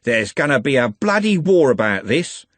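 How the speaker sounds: a hint of a thuggish gang leader; menacing Andy. Andy raising his cutlass at Trev, mild menace.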